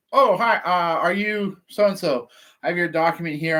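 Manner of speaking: high, bright hello, slowing on the question; friendly greeting. Retold or imitated. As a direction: cheerfully hail them across the yard. Retold greeting to homeowner.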